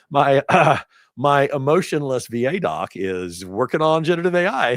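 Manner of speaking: amused, high and loud; laughing disbelief. Real, not acted. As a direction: laugh through the words. Laughing amazement at doctor.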